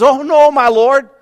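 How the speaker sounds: high, slow, panicked cry of alarm; hammed-up frightened servant; mock panic. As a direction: wail it like a servant who sees the army. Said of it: "So he begins to freak out".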